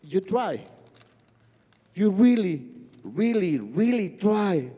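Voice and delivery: softly voiced, slowing consolation; gently reassure, letting the last words stretch out; little brother. Little brother consoling his crying sibling, soft and slow. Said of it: "my brother looks at me and says".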